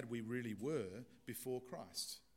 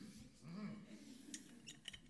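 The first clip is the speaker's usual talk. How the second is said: sick patient's throat clearing; 7 semitones higher, 11 dB quieter than usual. Acted. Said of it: "Sounds like the actual patient".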